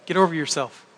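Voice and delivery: ordinary talk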